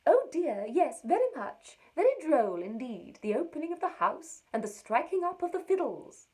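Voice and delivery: high, loud and gushing, clearly put on; gushing neighbour. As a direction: play the silly neighbour, overjoyed and loud. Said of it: "Her answer was".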